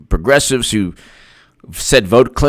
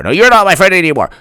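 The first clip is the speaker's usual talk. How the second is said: mock indignant, quick higher voice; higher retort; 3 semitones higher, much faster than usual. Friend insists friendship is over, quick high huff. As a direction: insist back, pitched up. Acted quarrel, traded retorts.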